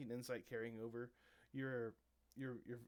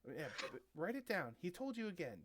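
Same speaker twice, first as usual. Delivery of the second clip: lightly voiced, higher-pitched sidekick; gaggle member; 6 semitones higher than usual. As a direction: pitch it up as a little henchman prompting a friend. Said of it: "you see one of them says".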